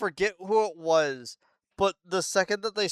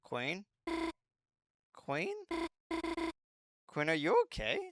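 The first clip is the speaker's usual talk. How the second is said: much softer, anxious calling Queen; a girl gently checking on a fallen friend; worried quiet calls; 4 semitones higher, 7 dB quieter than usual. Acted. Noelle calls the powered-down Queen.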